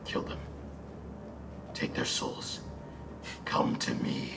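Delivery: slow, hollow whisper from beyond; Kytheron calling out. Acted. Kytheron calls to the player from below, sinister whisper. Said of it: "Kytheron calling out to you, being like".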